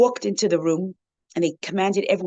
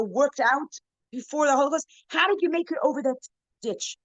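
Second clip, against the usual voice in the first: amazed question; 9 semitones higher than usual. Retold or imitated. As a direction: ask it like you can't believe he made it. Atheist asks rebbe, amazed.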